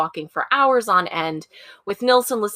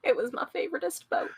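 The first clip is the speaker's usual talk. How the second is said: put-on childish voice; 7 semitones higher, 6 dB quieter, faster than usual. Voicing the child Nilsen.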